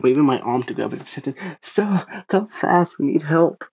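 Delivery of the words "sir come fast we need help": slow, higher call to a far figure. A narrator's reading. Boy calling the stranger again, calling out. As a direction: reach him across the distance. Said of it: "I called out for him again".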